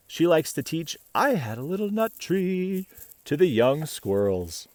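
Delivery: bright, even read-aloud voice; story narration. A narrator's reading. Reading a picture book to children, bright storytelling. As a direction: read the tale gently to little listeners.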